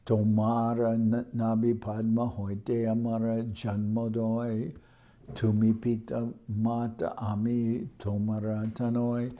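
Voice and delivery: verse recitation. Acted.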